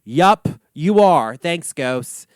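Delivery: slow, loud deadpan yup; dry sarcasm. Real, not acted. Answering the ghost's obvious message with slow sarcasm. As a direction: roll your eyes at the obvious.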